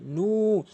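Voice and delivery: নু with the long u drawn out; lengthened u on নু; one-alif madd. Shown as a demonstration. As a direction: stretch the vowel of নু. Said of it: "এক আলিফ টান রয়েছে".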